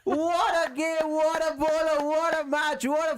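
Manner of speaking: excited. Real, not acted. Celebrating the win live.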